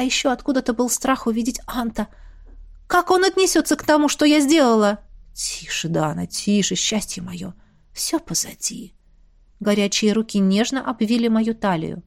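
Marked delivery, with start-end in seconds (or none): 5.3-8.9 hushed, tender soothing whisper; soft whisper. A narrator's reading. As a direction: soothe her gently, barely voiced. Antares soothing crying lover.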